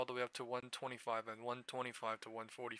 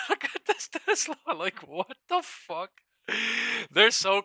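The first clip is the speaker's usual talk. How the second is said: much higher, laughing through the words; laughing disbelief; 10 semitones higher, 13 dB louder than usual. Real, not acted. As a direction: laugh out the words, slowed right down. Laughing at wild Tesla chart.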